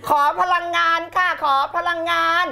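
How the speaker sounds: high, sustained call for energy; pumped-up chant-like demand; loud rallying call. Real, not acted. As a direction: call out to whip up the audience. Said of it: "ครูจะใช้เสียงดังขนาดนี้ทำไม".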